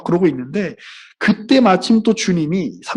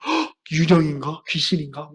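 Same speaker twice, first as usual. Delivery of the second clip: mock fright; 3 dB quieter than usual. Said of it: "그들이 놀라고 무서워하죠".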